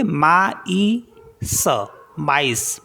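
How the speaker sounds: माईस with a and i sounded apart, ma-is; teacher shows the trema in maïs; separate vowels maïs. Shown as a demonstration. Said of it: "दोनों को अलग-अलग पढ़ेंगे".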